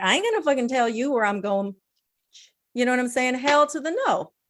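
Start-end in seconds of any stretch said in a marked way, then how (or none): 0.0-1.7 acted defiant, indignant, worked-up tone. Retelling own reply to a pastor's email: imitating own past indignant reply. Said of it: "I'm getting all spirally right now".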